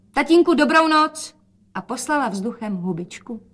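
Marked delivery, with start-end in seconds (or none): 0.1-1.3 higher, louder cheerful call; bright goodbye call. A narrator's reading. Daughter leaves, calling goodnight. (dcera volá na otce vesele)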